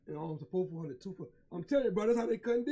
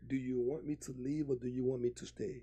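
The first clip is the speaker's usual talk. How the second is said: woman's voice; 7 semitones lower, 7 dB quieter than usual. Retold or imitated.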